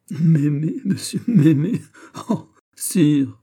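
high, loud scoffing exclamations; incredulous, amused outburst; mocking hilarity. A narrator's reading. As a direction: scoff in high-pitched disbelief, as if about to laugh. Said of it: "Il rit aux éclats".

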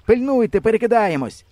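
high, loud warning cry; alarmed shout. A narrator's reading. The boy warns the hunter as the boat tips, shouting high and loud. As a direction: call out in panic. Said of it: "кричу".

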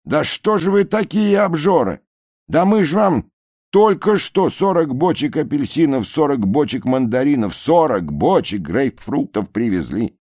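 high, loud reproach; scolding shout. A narrator's reading. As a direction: chide the gluttons. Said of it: "кричат с баржи". (укоризненный крик с баржи)

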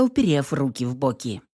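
usual speaking voice

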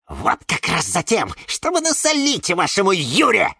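spiteful bark, rising in pitch; barked retort. Acted. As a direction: bark it back with mild venom. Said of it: "рявкнула Гордыня".

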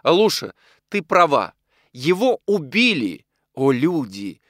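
exclaiming. A narrator's reading. Widow mourning the murdered man, exclaiming. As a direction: declaim the grief grandly. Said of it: "воскликнула полковница".

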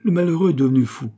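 loud, high, fast outcry; exclaiming in dismay. A narrator's reading. Abbot appalled at Pitou's claim, crying out in dismay. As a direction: cry out that he's lost his mind. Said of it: "s'écria l'abbé".

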